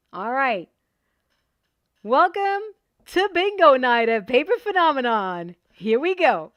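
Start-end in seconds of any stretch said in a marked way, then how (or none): 2.0-6.5 big, loud host announcement; loud, hearty bingo host welcome. Real, not acted. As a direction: announce it to the whole room. Opening the bingo night to viewers.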